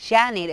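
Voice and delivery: JANEIRO opening on a sh-like J; J like che. Shown as a demonstration. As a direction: say "janeiro" with a hushed J. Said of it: "es como con che".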